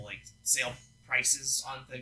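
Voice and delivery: talking through a burp. Real, not acted. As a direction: swallow a burp mid-sentence. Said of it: "I'm burping here".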